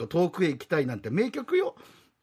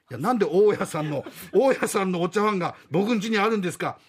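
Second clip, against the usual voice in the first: louder, laughing protest; exasperated laugh; 2 semitones higher, 4 dB louder than usual. Acted. Tenant laughing at the landlady's matching teacups.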